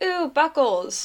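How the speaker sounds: put-on slow, dreamy teen gushing; swooning teen fan. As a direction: gush over the ship name. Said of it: "you're like".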